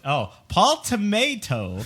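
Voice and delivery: Tomato said like the vegetable, slowly; Paul Tomato, stretched out, mock-correcting; Tomato pronunciation. Shown as a demonstration. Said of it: "that's pronounced tomato".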